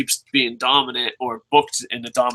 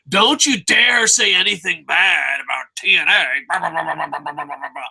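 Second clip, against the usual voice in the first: mock diehard fan. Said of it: "all these diehard TNA fans".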